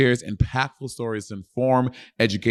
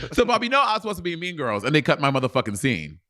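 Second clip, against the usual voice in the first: fast, higher mock-indignant guest voice; playing Jonathan Bennett; 4 semitones higher, faster than usual. Comic playing Jonathan Bennett to the host, mock indignant. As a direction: complain as the snubbed actor. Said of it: "You kinda sound like you're doing a black accent".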